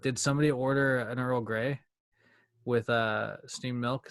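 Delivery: put-on a light, jokey British accent; mock British accent. Offering a podcast friend tea in a mock British accent. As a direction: play a posh English waiter, British accent only sketched. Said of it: "you need me to do my British accent?".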